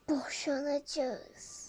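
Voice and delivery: sad quiet. Pretend. Parents telling daughter of divorce, slow and sad. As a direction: let the bad news drop slowly.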